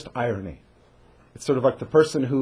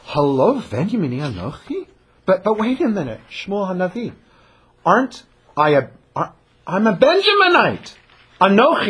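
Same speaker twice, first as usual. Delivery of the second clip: Saul protesting humbly; 4 semitones higher than usual. Retold or imitated. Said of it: "and he says".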